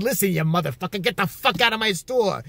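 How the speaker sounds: mild mock-angry outburst; imitated yelling. Uncle ordering old lady out of store, mock yelling. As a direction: throw her out as the imitated uncle. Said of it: "He would yell at her".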